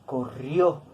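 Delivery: "corrió" stressed on the final syllable, co-RRIÓ; stress on last syllable. Shown as a demonstration. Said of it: "Aquí está el acento".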